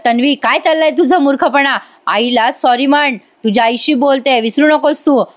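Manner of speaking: mildly retold scolding. Father orders Tanvi to apologise to her mother, mild scolding. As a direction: lightly imitate a father telling off Tanvi. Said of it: "मग रविराज ओरडतात आणि म्हणतात".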